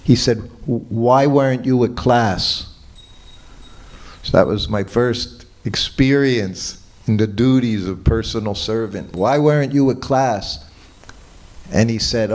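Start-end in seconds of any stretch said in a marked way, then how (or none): 0.6-2.7 a slow, louder scolding demand; retold mild yell. Teacher scolding his late servant, mild mock yell. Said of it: "Prabhupada yelled at him". 9.1-10.6 repeated mild yell. Retold or imitated. Guru repeating his rebuke to servant, mild mock yell. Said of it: "Prabhupada yelled at him".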